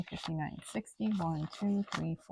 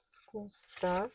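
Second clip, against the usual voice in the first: whisper. Real, not acted. Counting cash under breath.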